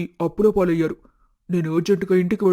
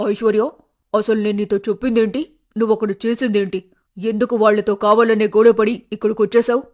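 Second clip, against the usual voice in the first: higher, louder exasperated scolding; scolding mother; 4 semitones higher, 3 dB louder than usual. Acted. Mother scolding her daughter for coming home, higher and louder. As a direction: demand why she ruined the plan.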